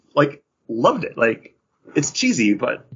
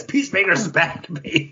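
hype call; 7 semitones higher than usual. Real, not acted. Hyping Peacemaker's return.

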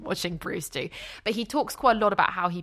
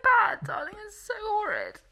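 much higher, voice strained with tears; tearful; 14 semitones higher than usual. Real, not acted. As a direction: let the tears pitch the voice up. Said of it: "I'm crying 'cause it's really sad".

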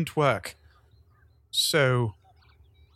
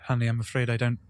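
gentle regret; 5 semitones lower than usual. Acted. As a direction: break it to the grieving friend gently, low. Gently refusing grieving friend.

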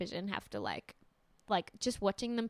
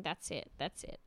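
hushed, much softer retelling; imitated whisper; 5 semitones lower, 12 dB quieter than usual. Sisters hugging while cameras film, imitated hushed whisper. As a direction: drop right down as if whispering. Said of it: "they're just whispering".

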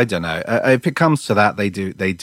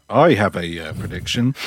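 deep manly voice; 4 semitones lower, 3 dB quieter than usual. Real, not acted. Announcing a prediction, deep and manly. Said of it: "Deep, manly voice there".

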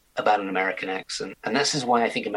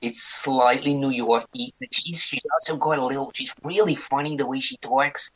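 put-on mixed New York and Irish accent; weird accent; 4 semitones higher than usual. Actor imitating a fan's voice messages, weird New York-Irish accent. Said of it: "it's the weirdest accent".

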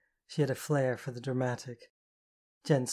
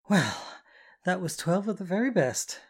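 loud and higher, showing off to the crowd; spoke up loudly; 6 semitones higher, 5 dB louder than usual. A narrator's reading. Mistress announces the count to the audience, loud and showy. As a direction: announce it to the whole room. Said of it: "Jen spoke up so the audience could hear".

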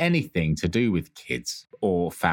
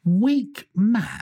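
mock teasing; 14 semitones higher than usual. Teasing a friend who never cries, high jeer. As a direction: taunt him like a playground bully.

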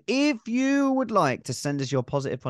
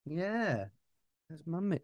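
singsong puppet show host; 4 semitones higher, 6 dB quieter than usual. Real, not acted. Talking to the baby.

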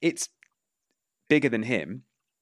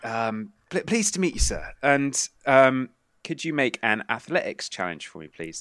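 put-on nervous old gentleman introducing himself; Vito Sessa; 3 semitones higher than usual. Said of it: "Vito Sessa".

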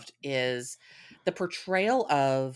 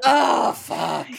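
excited groan; 7 dB louder than usual. Real, not acted. Mock swooning over toxic hot man.

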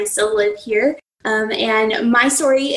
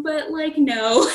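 laughing; 5 semitones higher, slower than usual. Real, not acted. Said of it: "laughing punchline".

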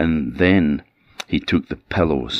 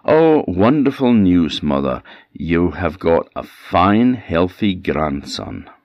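beaming announcement; 3 semitones higher, 4 dB louder than usual. Acted. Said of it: "have a big smile on your face and say".

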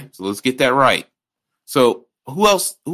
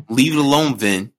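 laughing plea; 2 semitones higher than usual. Real, not acted. Laughing plea to Vin Diesel.

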